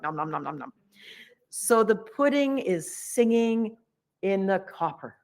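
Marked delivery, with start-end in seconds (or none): 0.0-0.7 munching noises. Retold or imitated. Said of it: "the few of us that like it are like".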